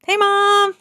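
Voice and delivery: high, eager Hey Mom; bright greeting. Retold or imitated. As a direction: greet her brightly, trying to be positive. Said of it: "I'm like".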